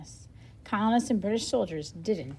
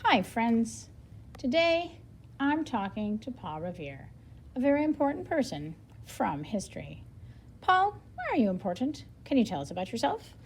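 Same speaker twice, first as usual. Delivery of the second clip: lively storybook read with a light reporter and Paul voice; reading aloud to children. Acted. Teacher reading the interview aloud to her class, lively storybook style. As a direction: read it brightly so young listeners follow. Reads book dialogue aloud.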